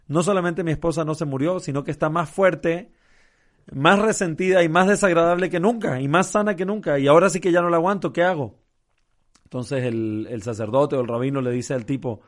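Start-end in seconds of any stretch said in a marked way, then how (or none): 0.1-8.6 a joke husband at his wits' end, mildly hammed-up; desperate husband. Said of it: "estoy desesperado".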